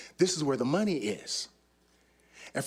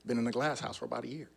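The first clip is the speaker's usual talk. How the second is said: lower, softer, laid-back ex-con; cool ex-con; 5 semitones lower, 5 dB quieter, faster than usual. Retold or imitated. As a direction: play it low and cool like just out of prison. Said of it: "I'm like".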